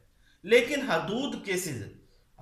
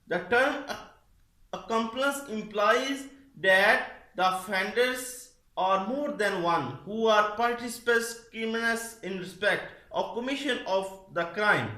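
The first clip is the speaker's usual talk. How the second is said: slow, deliberate dictation pace, word by word; much slower than usual. Acted. Teacher dictates the legal definition to students, slow and deliberate. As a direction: read it out slowly so students can write it down.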